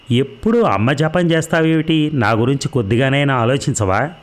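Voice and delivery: angry accusing question; mild angry outburst, jumps high at the start. Acted. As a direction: lash out at him in hurt. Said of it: "కోపంగా అంది".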